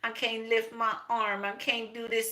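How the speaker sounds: hammed-up feeble whine about his arm; mock whining brother. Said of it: "Stop whining".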